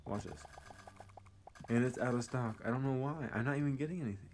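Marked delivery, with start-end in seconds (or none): 1.7-4.3 high, loud teasing sing-song; mocking taunt. Real, not acted. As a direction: taunt them playfully. Taunting NPCs.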